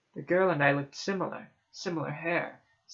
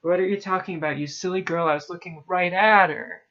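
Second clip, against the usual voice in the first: loud, exasperated teacher; angry rebuke; 3 semitones higher, 8 dB louder, faster than usual. A narrator's reading. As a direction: scold loudly, building on the last words. Enraged teacher rebukes the narrator.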